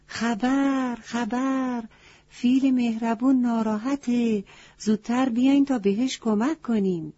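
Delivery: high crow voice calling the news. Acted. Crow calls the forest animals to help, high calling voice. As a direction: cry out the alarm like a town crier bird.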